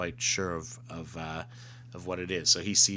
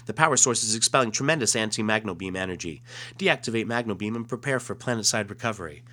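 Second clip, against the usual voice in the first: alien voice; 3 semitones higher, 5 dB louder than usual. Acted. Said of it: "looking on their monitor saying".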